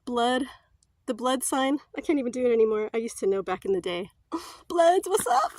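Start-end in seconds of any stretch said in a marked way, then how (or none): 4.3-5.5 mock gangster greeting. Throwing gang signs across hall.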